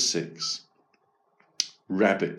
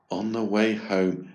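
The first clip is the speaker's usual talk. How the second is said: plain reading voice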